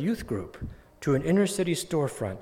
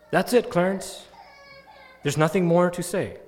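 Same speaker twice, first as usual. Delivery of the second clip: 1 emphatic farewell; 3 semitones higher, 4 dB louder than usual. Retold or imitated. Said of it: "pastor's final words at casket".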